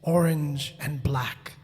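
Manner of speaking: slow, low storytelling with long pauses; hushed suspense. A narrator's reading. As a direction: draw out each word to build suspense. Suspense as the bushes part.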